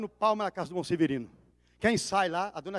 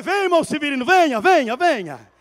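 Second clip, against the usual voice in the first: eager call; 5 semitones higher, 10 dB louder than usual. Retold or imitated. Pastor calls convert forward.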